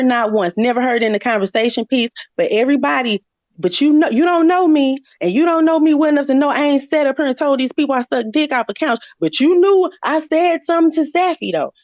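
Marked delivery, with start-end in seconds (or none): 3.6-11.7 higher-pitched, indignant rebuttal; arguing back, worked up and higher; heated self-defence. Real, not acted. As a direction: push back hard, pitch raised.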